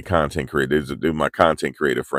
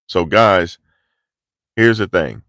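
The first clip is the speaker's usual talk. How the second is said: ordinary talk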